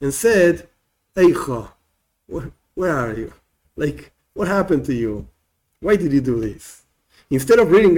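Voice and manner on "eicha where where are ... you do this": soft, lower, grieving lament; God crying. Acted. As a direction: mourn him quietly, like a heartbroken father. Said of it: "God started crying".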